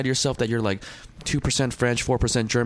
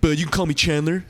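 higher-pitched mock introduction, lightly put on; retold introduction; 6 semitones higher than usual. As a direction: imitate a self-important newcomer introducing himself. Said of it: "He comes in. I say".

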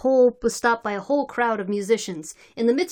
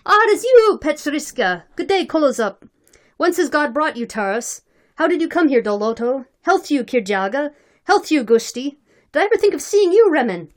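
loud, high joyful greetings; old comrades hailing each other, high and loud; hearty greetings; 4 semitones higher, 6 dB louder than usual. A narrator's reading. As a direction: hail each old friend across the square.

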